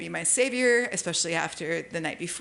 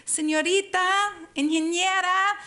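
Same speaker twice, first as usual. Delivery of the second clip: put-on timid little girl; 10 semitones higher than usual. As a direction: call out meekly like a shy little girl. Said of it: "this little timid voice going".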